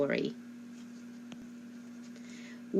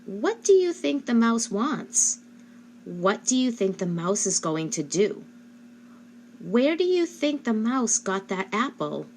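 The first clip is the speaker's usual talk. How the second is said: put-on asking the child; 4 semitones higher than usual. Shown as a demonstration. Parent asking child about the mouse, higher questioning voice. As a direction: open question to a young child, higher pitch. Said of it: "you can say".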